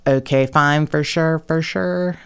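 lightly imitated Valley Girl accent; a hint of Valley Girl lilt; mild Valley Girl impression. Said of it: "the Valley Girl accent".

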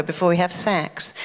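ordinary delivery

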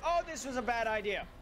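quick, falling realisation; quick regret. Real, not acted. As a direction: say it fast, sinking at the end. Regretting going on the roof.

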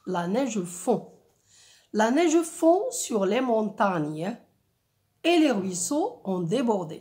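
deliberate, well-articulated verse reading; poetic reading. Shown as a demonstration. Teacher rereads the snow verse to the class, poetic reading. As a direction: recite with a poetic rhythm, pausing between verses. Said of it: "un rythme et un ton, euh, poétique".

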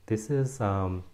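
slow, careful attempt at a lighter Australian accent; softened Australian accent. Shown as a demonstration. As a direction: tone down the Australian accent, drawing the words out. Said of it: "I'm gonna soften my, uh, Australian accent".

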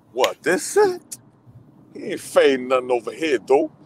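mock tough-girl voice, pitch leaping up; acting out the movie character. Fan replaying favorite scene for friend, mock tough-girl voice. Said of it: "That's my favorite".

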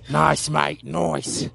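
put-on English accent, drawn out; light mock-English gym-coach accent; England accent. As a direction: play at an English accent, stretching the words. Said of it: "That's my England accent".

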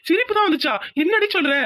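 high, incredulous disbelief; husband stunned his wife only laughed; surprised. Acted. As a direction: blurt it out, caught off guard.

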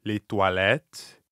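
slow, low "Les toilettes"; slow model phrase. Shown as a demonstration. Teacher breaks down the bathroom question, slowly. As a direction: draw it out low for a learner to copy.

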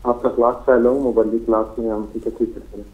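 unclear phone line; garbled caller audio; glitching audio. Real, not acted. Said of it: "आपकी आवाज़ साफ नहीं है".

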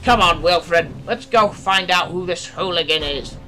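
loud, rousing order; exclaiming. A narrator's reading. Mister Borain rousing Wilfred to chase hooligan, exclaiming loudly. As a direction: urge him on forcefully. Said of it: "Mister Borain exclaimed".

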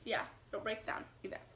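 soft whispered echo; whispering. Real, not acted. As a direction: whisper the correction to yourself. Quietly repeating mom's correction.

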